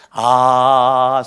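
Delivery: loud drawn-out 아, near a sob; loud grieving sigh. Shown as a demonstration. Preacher voicing James weeping inside with a loud sigh. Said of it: "속에는 울고 있는 거죠".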